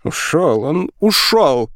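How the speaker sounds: high, drawn-out wail; keening girl's lament, pitched high. A narrator's reading. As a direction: wail over the loss, stretching the last word. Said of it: "причитала девочка".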